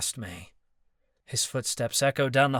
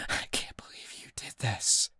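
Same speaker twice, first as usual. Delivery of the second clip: soft unvoiced disbelief; stunned whisper; 5 dB quieter than usual. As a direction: breathe it out, rage gone. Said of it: "All the rage melted from his tone".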